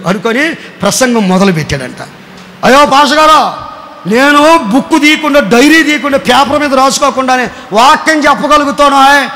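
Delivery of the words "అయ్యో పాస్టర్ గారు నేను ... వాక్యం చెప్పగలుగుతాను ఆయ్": lightly voiced, teasing Satan; mocking Satan. Satan boasting to the pastor, lightly mocking brag. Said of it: "అన్నాడంట సాతాన్ గారు".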